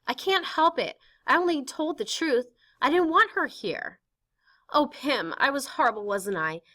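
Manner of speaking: Anne high and upset; defiant then pleading girl. Acted. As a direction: start stubborn, end begging for help.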